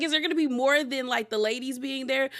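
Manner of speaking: high, fast, baffled question. Retold or imitated. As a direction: rattle it off in disbelief. Retelling her own reaction.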